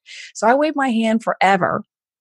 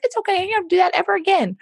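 mock comfort; 11 semitones higher, faster than usual. Voicing a failing woman.

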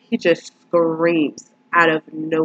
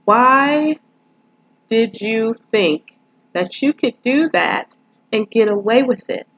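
exasperated disbelief; 5 semitones higher than usual. Real, not acted. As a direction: demand an answer from a foolish character. Scolds character for foolish theft.

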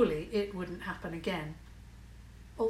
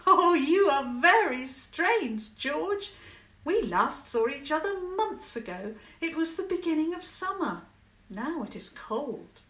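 amused; 7 semitones higher, 5 dB louder than usual. A narrator's reading. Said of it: "Now Clara laughed".

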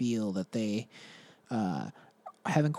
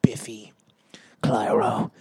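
stifled laughter; 6 dB louder than usual. Real, not acted. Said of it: "I can't even say it without laughing".

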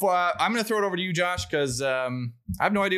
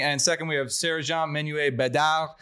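French accent. Shown as a demonstration. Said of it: "trying to increase my French accent proficiency".

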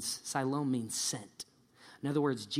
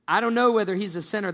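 emphatic; 6 semitones higher, 7 dB louder, much faster than usual. Acted. Healed man's reply acted out.

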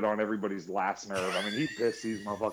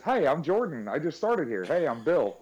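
higher, louder overeager greeting; imitating Jordan; 6 semitones higher, 4 dB louder than usual. Mimicking coworker's eager self-introduction, bright. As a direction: bounce in like a too-eager new hire. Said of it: "he just".

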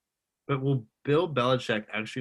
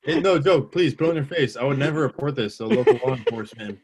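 louder pleading through a laugh; loud laughing mock plea; 3 semitones higher, 5 dB louder than usual. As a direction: beg loudly, half laughing.

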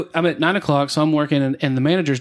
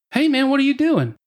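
imitating the cop; 9 semitones higher than usual. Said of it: "He's like".

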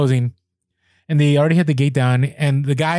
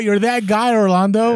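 teasing callout; 7 semitones higher than usual. Retold or imitated. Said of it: "Melissa O calls me out".

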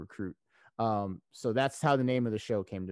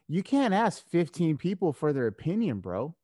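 higher, louder imitation of a lecturing friend; exasperated advice; 7 semitones higher, 5 dB louder than usual. Friend telling him not to ask fifteen people, exasperated. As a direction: imitate a buddy setting someone straight.

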